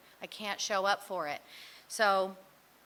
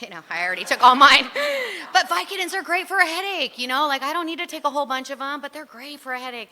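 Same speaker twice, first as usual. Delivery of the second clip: fast, loud, high laughing aside; 7 semitones higher, 12 dB louder, faster than usual. Real, not acted. Speaker laughs at her old Vicodin excuses to the room, fast and loud. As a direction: rush through it between laughs.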